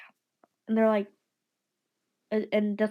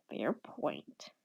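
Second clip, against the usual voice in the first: a much lower, fading whisper of Fair point; deflated whisper; 13 semitones lower, 10 dB quieter than usual. Acted. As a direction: let Fair point sink away to nothing. Repeated softer.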